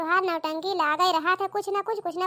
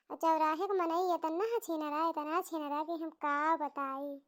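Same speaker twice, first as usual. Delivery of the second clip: scolding village mother-in-law; 5 dB quieter than usual. Acted.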